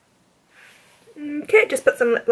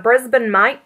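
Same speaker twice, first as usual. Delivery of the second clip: lightly mimicked bad Aussie; fake Australian accent; slower than usual. Friend inventing a hometown, put-on Australian accent. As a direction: imitate a friend faking Australian. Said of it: "Meg starts talking in an Australian accent".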